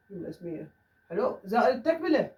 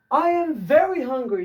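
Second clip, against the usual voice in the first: slow and higher, louder, each word clear; slow raised teacher example; slow dictation; 6 semitones higher, 6 dB louder, much slower than usual. Shown as a demonstration. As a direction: spell it out slowly for learners. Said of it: "teacher reads example sentence".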